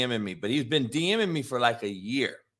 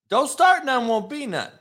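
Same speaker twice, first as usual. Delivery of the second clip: stern warning; 8 semitones higher than usual. Retold or imitated. Retold warning to the kid.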